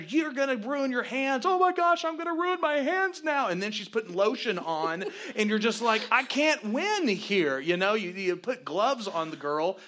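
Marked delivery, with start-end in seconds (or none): 0.0-1.5 high, loud frustrated warning; acted-out husband's yell; screaming at her. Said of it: "I'm screaming at her". 1.5-3.5 very high, loud mock wail; hammed-up hysterical worry; mimicked panic. Mimics wife's panicked answer. 6.1-7.6 loud, high, drawn-out frustration; acted-out helpless outburst; exasperated. Acts himself exasperated in argument.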